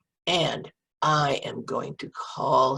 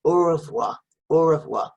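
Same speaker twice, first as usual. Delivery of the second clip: a louder, cheerful au revoir; loud goodbye; 3 semitones higher, 7 dB louder than usual. Shown as a demonstration. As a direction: call au revoir out to the dog. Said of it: "Can you say that?".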